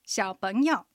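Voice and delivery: 小朋友 in Mandarin, xiǎopéngyou with 小 in the third tone, 朋 rising in the second and 友 in the third; teacher models 小朋友 tone by tone; Chinese drill word. Shown as a demonstration. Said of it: "もう一度おさらいしましょう。". (小朋友を中国語で、小は三声、朋は二声で上げ、友は三声で)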